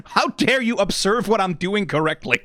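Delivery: talking through laughter; laughing. Real, not acted. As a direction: giggle the words out. Laughing at own blunder.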